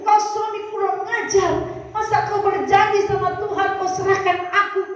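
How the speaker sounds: mildly heated scolding, acted; angry wife. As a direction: scold the husband as the betrayed wife. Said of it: "Istrinya marah". (istri memarahi suami)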